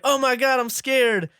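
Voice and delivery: high, mock-frightened squeal; mock scared. Retelling the trailer victim's line, high mock fear. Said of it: "and she's like".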